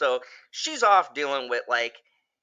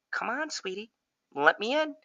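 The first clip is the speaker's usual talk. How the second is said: higher, sugary coax through the door; possessed mom coaxing daughter to open the door; coaxing mother voice; 8 semitones higher than usual. Retold or imitated. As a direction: sweet-talk the kid to open up. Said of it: "that mother kind of voice".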